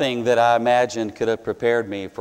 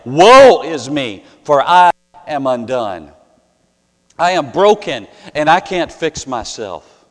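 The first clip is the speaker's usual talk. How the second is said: anguished cry; 8 dB louder than usual. Retold or imitated. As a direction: cry it out like a broken prophet. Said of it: "wanting to scream out like the Old Testament prophet".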